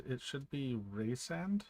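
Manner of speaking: "Rysand" said slowly, like Rhys; prescribed pronunciation. Shown as a demonstration. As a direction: say "Rysand" as REE-sand, slowly. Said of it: "if you're using it like John Rhys Davies".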